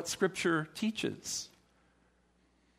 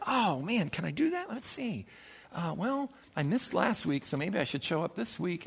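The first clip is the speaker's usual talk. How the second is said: mock dithering; 2 semitones higher, 6 dB quieter than usual. Uncommitted pastor weighing a coffee invitation, mock indecisive dithering. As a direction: pretend to think it over aloud, quietly unsure.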